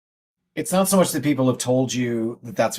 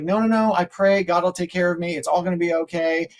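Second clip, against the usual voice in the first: stranded believer; 5 semitones higher than usual. Retold or imitated. Stranded person refusing again.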